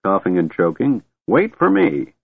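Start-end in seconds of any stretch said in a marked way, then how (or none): 1.3-2.1 put-on high-pitched old man's yell; desperate yell. A narrator's reading. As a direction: call after someone leaving without you. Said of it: "he yelled".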